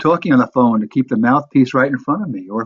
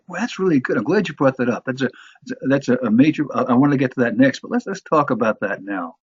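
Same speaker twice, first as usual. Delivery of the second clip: encouraging reply. Shown as a demonstration. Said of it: "you support that, reinforce that".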